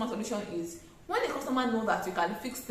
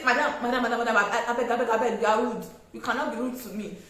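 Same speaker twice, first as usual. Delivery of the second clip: loud, mocking scold with a laugh in it; rude loud scolding; 5 dB louder, faster than usual. Shown as a demonstration. Seller scolding a rude customer, loud and mocking. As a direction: shout madam over and over at the customer. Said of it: "you pass it across in two different ways".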